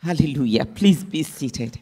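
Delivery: ordinary talk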